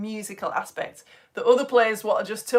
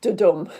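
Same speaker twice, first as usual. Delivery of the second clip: short "da", heavy "dum"; "da-DUM", second beat stressed; 3 semitones lower, 7 dB louder than usual. Shown as a demonstration. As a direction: land hard on DUM in "da-dum". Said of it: "that the rhythm is".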